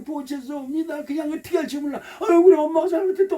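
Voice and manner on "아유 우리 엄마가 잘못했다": high, quick, fussing apology; imitated motherly pleading in a raised pitch; appeasing mother. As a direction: play a mother placating a wailing child. Mother appeasing her crying child.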